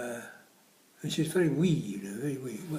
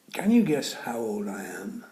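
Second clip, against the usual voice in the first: sly whisper; 9 dB louder than usual. Acted. Old man's cheeky question, whispered.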